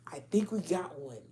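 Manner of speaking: hushed conspiratorial whisper; sly scheming whisper. Retold or imitated. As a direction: whisper it like plotting. Conspirators whispering about the target.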